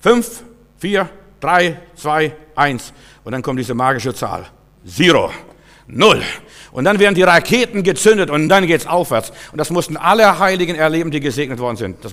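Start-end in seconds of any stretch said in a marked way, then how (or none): 0.0-6.2 rocket countdown. Shown as a demonstration. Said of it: "wenn das Countdown gekommen ist".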